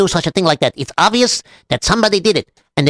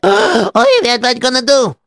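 panicked gasp; 5 semitones higher than usual. Acted.

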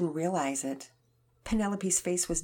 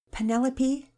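gentle; 10 semitones higher, 7 dB louder than usual. Acted. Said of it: "Mama Peters said gently".

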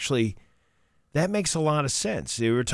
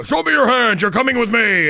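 high, louder robotic cop bark; barking police commands; 9 semitones higher, 6 dB louder than usual. Retold or imitated. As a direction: order it like RoboCop.

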